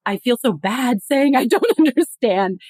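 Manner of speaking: flustered, giggly, fast at first, then slowing; imitating someone too embarrassed to admit they're lost; half-laughing embarrassed confession; mock embarrassed. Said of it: "or we start getting really embarrassed".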